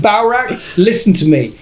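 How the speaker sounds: hammed-up demand for attention; mock angry. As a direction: pretend stern call to a rival. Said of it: "That was quite angry".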